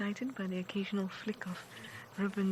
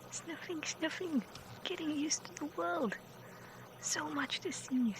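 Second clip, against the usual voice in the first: cooing commentary; 7 semitones higher than usual. Real, not acted. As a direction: coo along as they explore. Cooing commentary on sniffing cubs.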